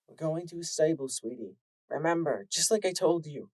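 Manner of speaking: mother gently reassuring her foal, lightly voiced; a hint of a soothing mother; soft mother. Mother calming her scared daughter, softly. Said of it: "she said softly".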